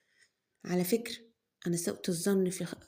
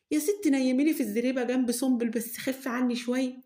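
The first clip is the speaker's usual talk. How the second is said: weary pleading; 5 semitones higher, 3 dB louder than usual. Acted. Daughter begs mother to ease off.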